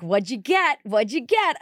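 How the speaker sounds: put-on asking like a kid on Christmas morning; eager excitement. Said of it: "I'm like".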